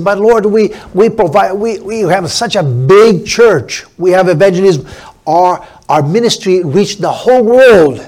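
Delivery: lightly voiced self-satisfied believers begging at the gate; pleading churchgoers. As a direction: plead your good works, a touch boastful. Church people pleading with the Lord.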